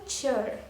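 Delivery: chur with a ch at the start; chur sound. Shown as a demonstration. Teacher showing how the word ending sounds, chur sound. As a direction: say chur as in the end of picture. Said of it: "This is making the sound".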